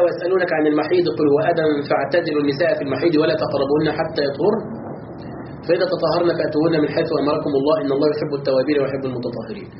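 measured, even recitation of the verse; Quranic recitation. Acted. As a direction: recite the verse steadily before explaining it. يتلو الآية قبل شرحها. (تلاوة هادئة ومرتلة للآية)

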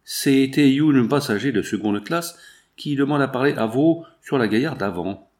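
put-on French with a heavy English accent; formal steward asking in English-accented French. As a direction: foreign employee's English-tinged French.

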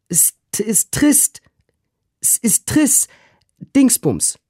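very high, loud, groping for the name; a flustered maid who forgot the word; high squeaky breathless maid; Susanna calling out. A narrator's reading. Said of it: "rief Susanna".

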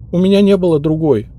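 high, halting maid's excuses; the maid makes excuses, high and flustered. Acted. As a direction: stumble over the justification. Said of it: "сбивчиво оправдывалась служанка".

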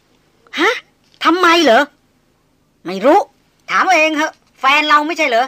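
loud, high startled reply. A narrator's reading. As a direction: jump in alarmed and loud. Startled squabble between friends.

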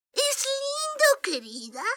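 put-on high, slow kindly old voice; sweet old lady. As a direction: gently hurry her along. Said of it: "empezó diciendo su madrina".

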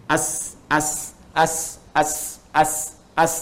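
as with the s cut off silent; as drill. Shown as a demonstration. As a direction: repeat the drill steadily. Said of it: "Pakaikan misalnya hamzah depannya".

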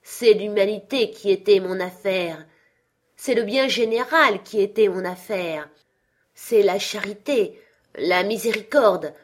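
a chained spirit grieving his wasted life; Marley's ghost. Acted. (le fantôme de Marley, plainte solennelle et forte)

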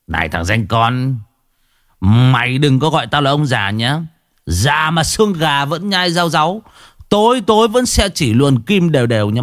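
lightly voiced old braggart, teasing; a hint of a swaggering old man; old man's boast. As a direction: puff up like a cocky old man.

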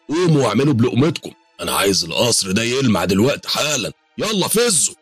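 high, loud scolding of servants; loud bossy yelling. Acted. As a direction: bark orders at lazy workers. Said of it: "وقال بصوت عالي".

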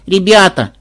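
pleading. A narrator's reading. Granddaughter appeals to her squabbling friends, pleading. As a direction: stretch the word imploringly. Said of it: "умоляюще протянула внучка".

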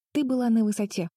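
mildly fervent praise for grandma; heartfelt support. Acted. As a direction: back her up warmly. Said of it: "горячо поддержала её Бетти".

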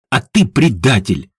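usual speaking voice

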